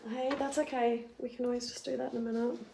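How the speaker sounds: speaking with a sore throat. Real, not acted. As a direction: talk gently through a sore throat. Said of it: "I could barely talk. My throat is so sore".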